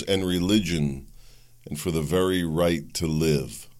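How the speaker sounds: measured address to the nation; deliberate public oration; formal speech reading. Acted. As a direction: read out a translated state speech in your own voice. Reads Putin's speech in own voice.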